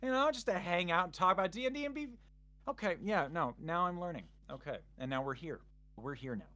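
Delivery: high, eager, then fading off; excited inner voice. Retold or imitated. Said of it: "I was like".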